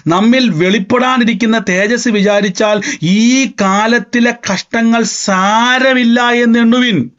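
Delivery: slow, measured reading of the verse; solemn scripture reading. Acted. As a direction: read it out weighty and slow, stretching the end. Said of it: "Bible പറഞ്ഞ വാക്ക് കണ്ടോ". (വചനം ഗൗരവത്തോടെ പതുക്കെ വായിക്കുന്നു)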